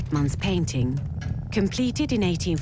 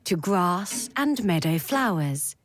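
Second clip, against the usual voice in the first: slow, measured verse reading; poem recitation; slower than usual. Acted. Narrator opens with Pentti Lyytinen's poem On Consensus, slow recitation. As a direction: recite it line by line, unhurried, with pauses.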